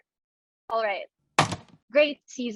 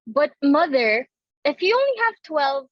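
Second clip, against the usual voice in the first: protesting; 6 dB louder than usual. Acted. Daughter protests to mother.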